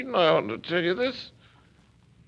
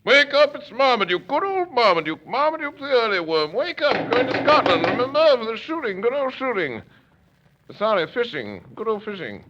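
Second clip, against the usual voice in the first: put-on loud, higher drunken calls to wake him; drunken shouting; 6 semitones higher, 6 dB louder than usual. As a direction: bellow up at the window to wake Hannay.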